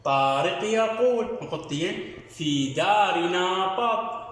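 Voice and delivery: slow, sing-song reading for pupils; reading aloud to children. Shown as a demonstration. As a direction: read it out like a primer for first graders. Teacher reads the reading passage aloud. (قراءة إنشادية بطيئة للأطفال)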